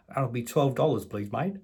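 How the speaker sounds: mock Aussie barista; put-on Australian accent, rising on mate. Barista asks customer for twelve dollars, mock Australian accent. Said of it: "Sorry for the accent".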